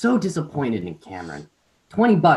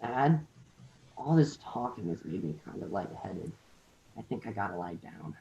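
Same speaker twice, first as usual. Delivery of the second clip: faint, fading sick voice; nasally sick voice; 4 semitones lower, 11 dB quieter than usual. Acted. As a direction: fade out as if dizzy. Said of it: "nasally sick voice".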